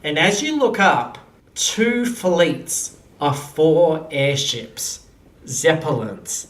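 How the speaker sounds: measured narration with dramatic pauses; game master's scene setting. Acted. Game master describing airships arriving over the wedding, suspenseful narration. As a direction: unveil it piece by piece, deliberately.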